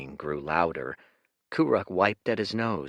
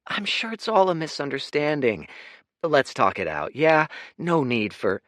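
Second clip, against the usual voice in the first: placating; 9 semitones higher, 6 dB louder than usual. Acted. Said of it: "most placating grin".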